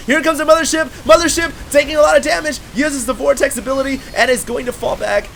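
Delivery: high, loud shouting play-by-play; frantic caster yelling over the battle; excited. Real, not acted. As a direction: scream the fight as it unfolds. Big fight play-by-play.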